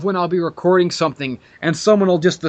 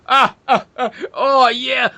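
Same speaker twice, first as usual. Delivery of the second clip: higher, slow hammed-up moaning; mock pleasured moan; 5 semitones higher than usual. Mocking the caller enjoying the yelling, higher mock moans. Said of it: "he's sitting there laughing".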